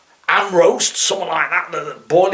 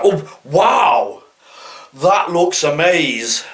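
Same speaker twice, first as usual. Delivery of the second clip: mock gushing; much slower than usual. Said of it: "How could something look amaze".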